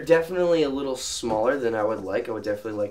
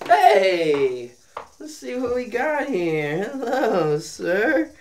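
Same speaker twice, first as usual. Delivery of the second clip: talking to pets; 10 semitones higher, much slower than usual. Acted. Greeting the snakes in a cute voice.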